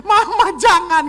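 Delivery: very high, loud mock sobbing plea, half laughing; imitating crying children. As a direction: wail like a child begging, laughing through it. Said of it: "Karena anak-anak". (tiruan anak menangis memohon, sambil tertawa)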